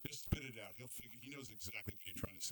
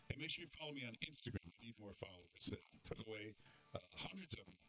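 ordinary talk, nothing marked

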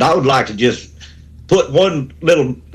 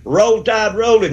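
drawn-out cheer; 7 semitones higher than usual. Real, not acted. Caller's sign-off cheer.

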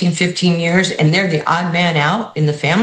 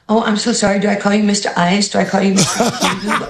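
higher, laughing, mock-flustered; flustered and giggling at her own mistake; sheepish laughing apology; 3 semitones higher than usual. Apologizing to a rapper on the phone, embarrassed laughing.

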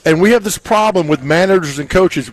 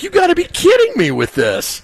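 high squeaky disbelief, pitched way up; mock outrage at the news, high-pitched; incredulous. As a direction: act stunned, voice shooting up high. Retold disbelief again.

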